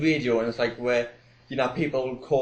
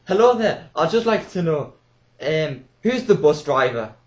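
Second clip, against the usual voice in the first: put-on elderly woman caller; 2 semitones higher, 6 dB louder than usual. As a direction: play a dithering old caller. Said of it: "rings up and goes".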